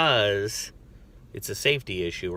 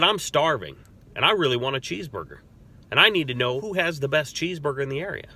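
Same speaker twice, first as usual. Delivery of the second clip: higher and quick, breezy and friendly; upbeat casual chat; 4 semitones higher, 3 dB louder, faster than usual. Retold or imitated. Officer to screaming inmate, higher, quick, breezy casual chat. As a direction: disarm him with easy small talk. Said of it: "I said".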